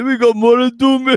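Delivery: a light mock-tearful Rocky plea; half-crying the line like the Mickey death scene; imitating Rocky's cry. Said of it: "the cry was pretty good".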